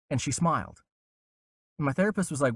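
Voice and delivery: usual speaking voice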